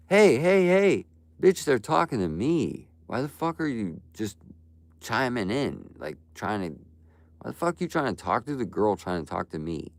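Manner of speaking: high, loud mocking yell at the start; mock outburst. Streamer imitating jealous viewers yelling at him, high and loud. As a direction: screech it like a jealous viewer butting in, then keep ranting. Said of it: "and they'll go".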